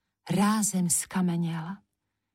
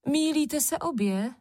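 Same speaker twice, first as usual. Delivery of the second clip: higher, insistent exclamation; exclaiming; 8 semitones higher than usual. A narrator's reading. Červenka contradicting both her sisters, insistent exclamation. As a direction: cry out to correct them both. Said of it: "zvolala Červenka".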